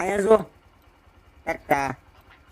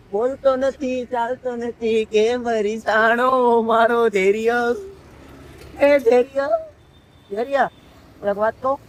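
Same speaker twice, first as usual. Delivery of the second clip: coaxing; slower than usual. Real, not acted. Coaxing a sulking child.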